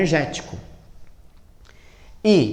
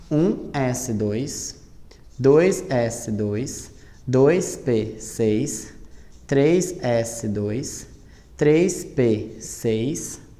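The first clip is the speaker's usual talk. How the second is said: ditando bem devagar; much slower than usual. Shown as a demonstration. Professora dita a distribuição do magnésio.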